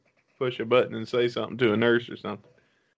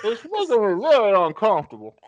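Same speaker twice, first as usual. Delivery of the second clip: uneasy victim; 7 semitones higher, 4 dB louder than usual. Acted. Victim refusing in skit.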